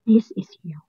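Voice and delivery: breathy secret whisper. Real, not acted. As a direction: lean in and whisper it. Reveals the hidden truth. (pabulong na sinabi)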